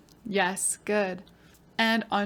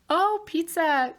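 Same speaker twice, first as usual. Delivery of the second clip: slow, drawn-out delighted oh; mock surprise; 7 semitones higher, 3 dB louder, slower than usual. Teacher delighted by the pupil's pizza answer, mock surprise. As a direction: act pleasantly surprised at the answer.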